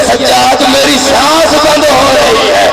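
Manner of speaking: put-on slow wailing child's plea; sobbing plea. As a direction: draw out each word like a thirsty child crying. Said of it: "रो के कहती है".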